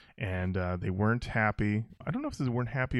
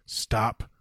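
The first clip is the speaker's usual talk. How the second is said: slow, tight, angry words through gritted teeth; a friend's slow gritted-teeth warning; 2 semitones lower, much slower than usual. Retold or imitated. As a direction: hold back anger and force it out between clenched teeth. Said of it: "like, through gritted teeth".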